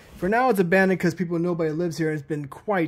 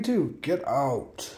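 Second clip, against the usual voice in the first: slow, low ghostly warning; eerie drawn-out command; unearthly voice; 5 semitones lower, 6 dB quieter, much slower than usual. Acted. Ghost voice threatens visitors.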